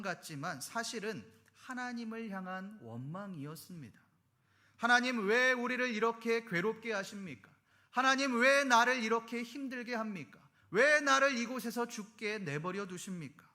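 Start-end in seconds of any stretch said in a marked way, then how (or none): 4.8-13.5 louder, pleading cry of grievance; anguished complaint to God. Retold or imitated. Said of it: "라고 하는". (하나님께 울부짖는 원망의 큰 목소리)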